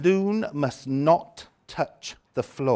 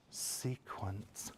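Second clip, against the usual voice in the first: softer, savouring the word Sequence; awed hush; 6 semitones lower, 18 dB quieter than usual. Shown as a demonstration. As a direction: say Sequence like a treasure. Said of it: "say words with passion".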